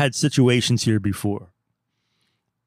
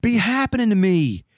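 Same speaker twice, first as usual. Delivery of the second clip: high, strained incredulous voice; exasperated disbelief; 6 semitones higher than usual. Retold or imitated. Tony insisting he's known here, high and incredulous. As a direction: pitch it up in disbelief. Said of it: "I'm like".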